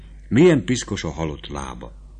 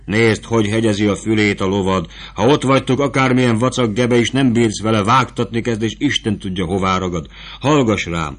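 put-on motherly soldier woman talking down to a boy; lightly voiced camp woman; vivandière's voice; 3 semitones higher, 3 dB louder than usual. The vivandière lectures Fabrizio.

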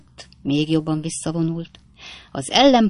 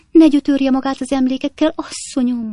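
much higher, louder shrill reproach; a busybody maid laying into the master; scolding maid; 8 semitones higher, 4 dB louder than usual. A narrator's reading. Maid berating the husband for hurting her mistress, high and loud.

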